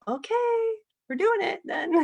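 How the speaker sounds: giddy surrender, laughing as she agrees; delighted giving in. Retold or imitated. Mother answering her son's spirit, laughing and delighted. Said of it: "I'm like".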